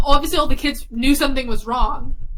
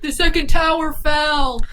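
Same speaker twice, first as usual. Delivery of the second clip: drawn-out retold call from another room; mild mock shout, words stretched; 2 semitones higher, slower than usual. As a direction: call it out slowly, at half force. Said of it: "my dad shouted from the room".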